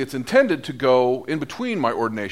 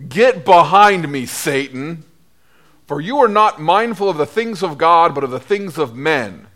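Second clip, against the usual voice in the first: rebuke; 5 dB louder than usual. Acted. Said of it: "Jesus rebuked Peter, saying".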